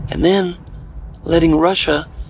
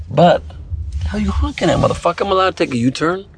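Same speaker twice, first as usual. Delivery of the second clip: annoyed yell; 5 semitones higher than usual. Real, not acted. Yelling at honking driver.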